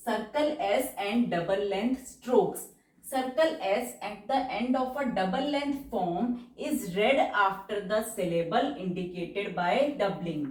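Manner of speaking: very slow, word-by-word rule dictation. Acted. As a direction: read the rule out slowly for students to write. (धीमी गति से नियम बोलकर लिखवाना)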